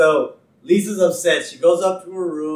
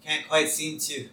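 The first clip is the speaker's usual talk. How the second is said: heavy-breathing cop voice; 5 dB louder, faster than usual. Retold or imitated. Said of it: "breathing heavy".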